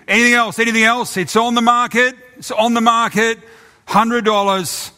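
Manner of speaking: high, loud rapid auction call, slowing at the end; auctioneer going once. Acted. Auctioneer calls for other bids before closing. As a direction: hurry the last call.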